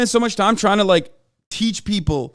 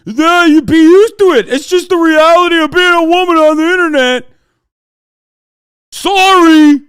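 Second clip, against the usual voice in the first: mocking sneer; 10 semitones higher, 10 dB louder than usual. Mocking a sexist chatter.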